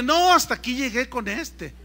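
high, loud cry of dread; mock alarm. Preacher seeing the furious organizer, high mock alarm. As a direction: yelp it as if doom is coming.

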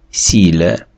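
"Сіле" as one drawn-out French word; careful model of "Сіле" with weak final e; French reading. Shown as a demonstration. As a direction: read "Сіле" out for learners in French. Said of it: "Читається".

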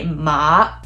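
MA exaggerated, dipping then climbing; slow scooped MA. Shown as a demonstration. Teacher showing what isn't said in conversation, down and up. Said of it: "down and up".

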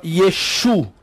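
"Yeshu" said as ye-SHU, ending on u; Western pronunciation. Shown as a demonstration. Teacher showing the Western form, "Yeshu" as ye-SHU. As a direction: land on a long SHU in "Yeshu". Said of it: "a pronúncia ocidental pronunciava".

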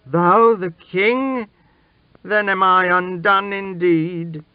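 high, loud cry of dismay; exclaiming. A narrator's reading. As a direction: cry out as if all is lost. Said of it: "he exclaimed".

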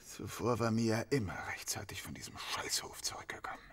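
unvoiced hushed confession; whisper. Suspect whispering his confession to the detective. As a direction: breathe it out as a secret.

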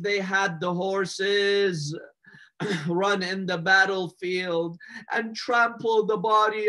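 lamenting preacher, drawing out the last words; mournful sermon recitation. Acted. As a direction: grieve aloud with long held endings.

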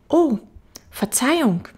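put-on high apologetic child voice; little prince. Little prince apologising to the fox, high child voice.

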